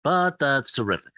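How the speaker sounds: a hint of Regis, breezy and light; Regis catchphrase. Host wrapping up a guest's story, a mild Regis voice. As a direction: shrug it off like a talk-show host. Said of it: "and then he'll go".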